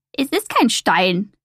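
slow, croaky crow voice; lightly voiced croaking crow. A narrator's reading. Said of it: "krächzte die Krähe".

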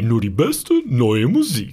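slow, booming radio jingle voice; radio trailer voice. Shown as a demonstration. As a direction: announce it like a station trailer. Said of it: "Was war das denn für eine Stimme?".

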